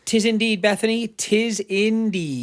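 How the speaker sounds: mock-solemn agreement, last words drawn out; mock-formal. Answering Bethany on hindsight, mock-formal, stretched at the end. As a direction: agree with playful old-fashioned pomp.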